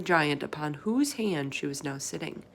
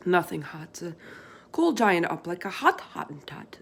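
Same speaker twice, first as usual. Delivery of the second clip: BFG voice. Acted. Giant explaining to Sophie what the others do, folksy. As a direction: play the big friendly giant, chatty and earnest.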